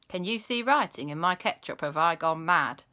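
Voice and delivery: a hint of a northern English accent; lightly northern English, puzzled. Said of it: "he turned northern".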